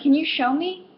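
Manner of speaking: mock-nice customer-service request; nice phrasing. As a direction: ask sweetly with a rising end. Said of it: "you phrase it in the nice one".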